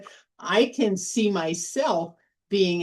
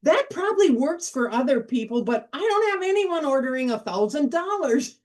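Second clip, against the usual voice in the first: higher, half-laughing mock disbelief at the sum; incredulous disbelief; 5 semitones higher than usual. Retelling her own reaction to the sales target, incredulous. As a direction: scoff as if the number is absurd. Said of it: "I'm like".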